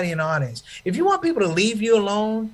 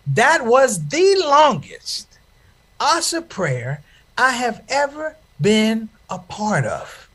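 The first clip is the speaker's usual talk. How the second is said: exaggerated slow build; drawn out; 3 semitones higher, much slower than usual. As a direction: lean hard on how long it was. Comic emphasis, closing punchline.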